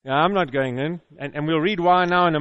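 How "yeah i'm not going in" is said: a hint of a pouting son; grumpy elder son. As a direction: lower sulky refusal, lightly voiced. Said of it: "Mister Grumpy Pants".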